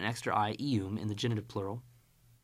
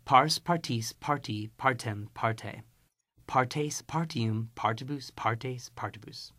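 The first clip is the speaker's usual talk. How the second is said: choral recitation. Shown as a demonstration. Teacher chanting the declension along with the class. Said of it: "Now say it with me".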